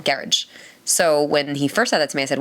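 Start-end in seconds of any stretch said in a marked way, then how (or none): 0.0-0.4 "garage" ending in "idge"; British garage. Shown as a demonstration. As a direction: say "garage" like carriage. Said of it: "With a D".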